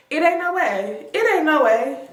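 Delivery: shocked disbelief. Retold or imitated. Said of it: "I was standing there like".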